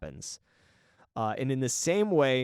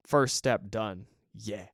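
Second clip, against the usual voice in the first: talking through hiccups; words broken by hiccups; 2 semitones lower, much slower than usual. Real, not acted. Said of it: "I got the hiccups".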